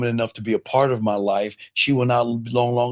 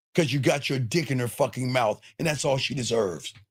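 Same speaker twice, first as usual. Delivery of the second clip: ordinary delivery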